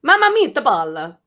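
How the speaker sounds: put-on slow, playful Italian accent; mock Italian accent. Joking about how Vite sounds among colleagues, mock Italian accent. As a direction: ham it up with a little Italian accent. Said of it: "It's a little Italian".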